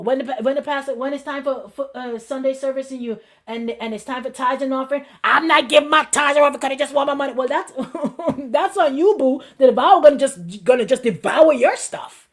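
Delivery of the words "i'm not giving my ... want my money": fast, louder grumbler's protest; mock indignant refusal. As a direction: imitate someone refusing in a huff. Acting out a refusal to tithe.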